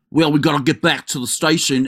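breathy mock Boston detective; lightly mocked Boston accent; bad Boston accent. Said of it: "she has this fucking Boston accent".

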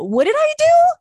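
Italian-American shout of protest; Italian-American outrage. Retold or imitated. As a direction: throw it out like a fiery Italian-American. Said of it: "getting really Italian".

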